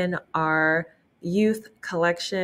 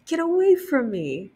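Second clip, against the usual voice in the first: much higher, sharp get-away cry; haughty dismissal; 10 semitones higher than usual. Acted. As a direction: shoo him off with disdain. Rainbow Fish rejects blue fish.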